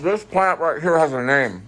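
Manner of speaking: talking through a mouthful; words round a bite of food; mouth full. Real, not acted. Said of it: "I can't understand you with your mouth full".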